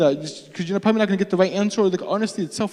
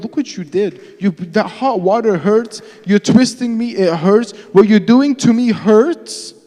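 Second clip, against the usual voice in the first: high, rising accusation, growing louder; blaming God; 5 semitones higher, 6 dB louder than usual. Acted. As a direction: hurl the hurt back as blame. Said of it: "Sometimes we blame God".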